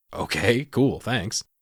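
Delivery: put-on grunted reply. Retelling a character's reply: imitating a grunted reply. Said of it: "she just kinda grunts like".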